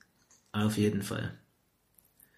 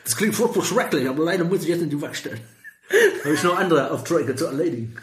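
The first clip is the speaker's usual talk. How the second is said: put-on American accent in German. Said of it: "dieser Akzent war halt einfach da".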